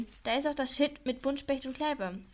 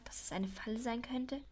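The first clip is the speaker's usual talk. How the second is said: worried whisper; 5 dB quieter than usual. Acted. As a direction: drop to a whisper at the word trap. Fearing a trap. (besorgt geflüstert)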